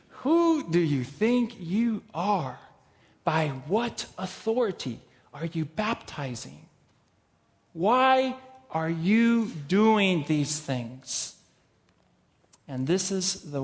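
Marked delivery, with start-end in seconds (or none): 0.1-11.4 accusing challenge. Shown as a demonstration. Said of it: "asked that question like that".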